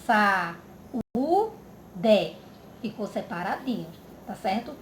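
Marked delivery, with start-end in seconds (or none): 0.1-0.6 "saúde" in three beats, sa, u, de; split into syllables. Shown as a demonstration. Teacher separating the word for pupils, "saúde" syllable by syllable. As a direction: break "saúde" apart with pauses between syllables. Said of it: "Vai separar".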